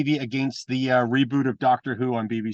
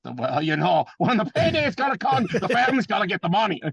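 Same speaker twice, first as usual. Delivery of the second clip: much higher, spaced-out stoner voice; Roddy Piper impression; 8 semitones higher than usual. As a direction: float it up high like a stoned old wrestler. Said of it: "he's always felt like he was three joints in".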